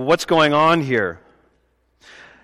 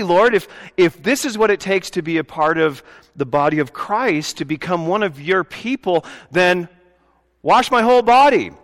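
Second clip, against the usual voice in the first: eager enthusiasm; 3 semitones higher than usual. Retold or imitated. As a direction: offer everything in a rush of keenness. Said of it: "I love his enthusiasm".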